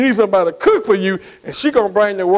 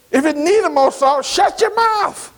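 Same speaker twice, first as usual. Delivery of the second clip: mock scolding; 5 semitones higher, slower than usual. Scolding husband over salt.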